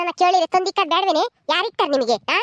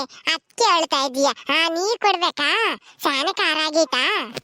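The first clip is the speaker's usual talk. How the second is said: gentle coaxing; slower than usual. Acted. Comforts crying man, slow.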